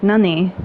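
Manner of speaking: "Nani" said with a sharp rising question; Japanese "nani". Shown as a demonstration. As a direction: ask "Nani?" in surprise. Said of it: "what is, like".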